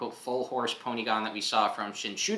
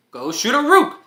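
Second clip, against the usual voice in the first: very high, loud battle cry; spell shout; 14 semitones higher, 14 dB louder than usual. Acted. Hero casts the speed spell with a loud high battle cry. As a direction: yell the spell name with full force.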